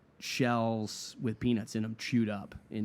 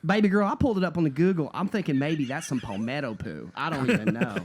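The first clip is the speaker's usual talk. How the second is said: fast, louder, folksy worker's voice; a hint of a chatty cook guessing; mock kitchen worker; 3 semitones higher, 3 dB louder than usual.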